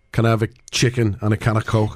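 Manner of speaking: Liverpool Scouse, lightly; Scouse accent. Shown as a demonstration. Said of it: "first thing, we've done it before".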